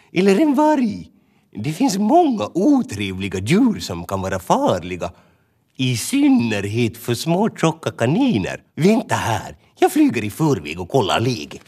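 fussy little bird warning the others; a hint of a worried bird voice; Tova the bird.

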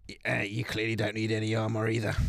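a lightly voiced officer, brisk and blunt; gruff recruiter. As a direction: bark it like a dismissive drill sergeant. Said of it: "He slaps you on the chest".

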